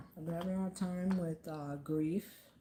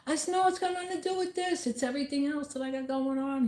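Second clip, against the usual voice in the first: retold reassurance; 9 semitones higher, 4 dB louder than usual. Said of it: "He's like".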